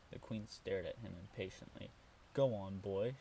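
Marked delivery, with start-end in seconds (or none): 2.3-3.2 loud impatient blurt. Acted. Impatient queen urging servant boy, loud blurt. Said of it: "she blurted".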